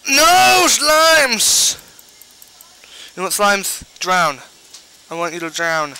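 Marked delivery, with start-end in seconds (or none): 0.1-1.8 very high, loud shriek; high panicked scream. Real, not acted. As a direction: shriek in terror. Slimes appear.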